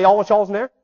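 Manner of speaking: hard-to-follow Southern "y'all's"; imitating a Southern friend's dialect; imitated Southern dialect. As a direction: run the words together in a Southern accent. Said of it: "had to look to Chad to translate that".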